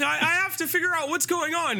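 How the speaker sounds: put-on high, insistent young woman's voice; the daughter insisting she'll find out; determined daughter. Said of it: "she's like".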